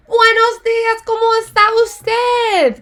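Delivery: high, slow polite woman; woman's formal greeting. Pretend. Teacher voicing the woman's formal Spanish greeting, high. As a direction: greet him formally and graciously. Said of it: "She says".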